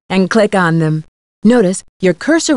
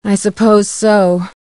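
resigned. Acted. Accepting a scolding.

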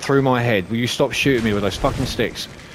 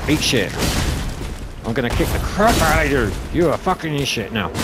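threatening yells; 4 semitones higher than usual. Real, not acted. Player threatening enemy mid-fight.

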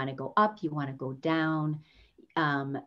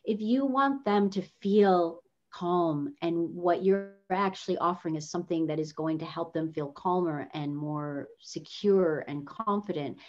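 calm tone. Shown as a demonstration. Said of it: "use a tone of voice that will elicit that feeling".

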